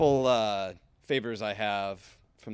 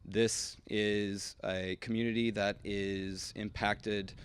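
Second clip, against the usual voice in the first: teleprompter read. Real, not acted. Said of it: "I'm gonna read this to you".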